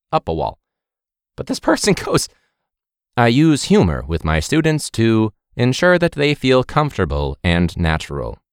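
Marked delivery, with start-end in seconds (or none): 3.2-8.4 flat robotic monotone. Retold or imitated. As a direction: say it like a stiff robot. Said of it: "Like, all right, robot".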